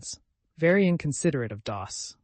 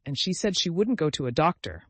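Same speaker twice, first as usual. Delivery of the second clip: a touch of a moaning mother, stressing wouldn't; wouldn't lightly stressed, falling, fretful; 4 semitones higher, 5 dB louder than usual. Acted. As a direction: lean on wouldn't in mild distress. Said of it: "moaned Missus Frederick".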